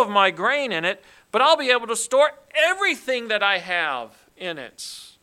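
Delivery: a loud, booming voice of the greedy rich man planning; loud boastful rich man. Acted. Preacher booming the rich man's plans to the congregation. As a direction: proclaim it like a smug rich man.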